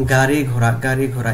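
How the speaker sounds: গাড়ি ঘোড়া said clearly twice; pronunciation drill. Shown as a demonstration. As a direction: model গাড়ি ঘোড়া for the class. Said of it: "এরকমই".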